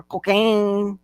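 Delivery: COCAINE leaned on with a Spanish lilt; emphasized. Retold or imitated. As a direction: imitate an officer stressing COCAINE. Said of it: "They always, like, have to emphasize the drug".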